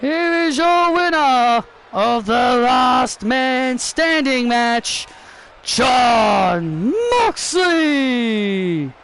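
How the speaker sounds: slow, stretched ring announcer. Pretend. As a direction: boom out the winner's name. Ring announcer declaring the winner.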